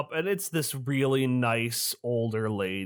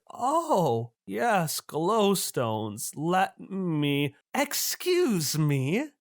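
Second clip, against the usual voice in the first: put-on sweet old lady; 4 semitones higher, much slower than usual. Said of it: "turns over to you and is like".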